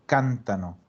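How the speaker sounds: cántano stressed on the first syllable, CAN-ta-no; cántano with the weight on CAN; stress on the root. Shown as a demonstration. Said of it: "solo puede cargar el acento dentro de la raíz".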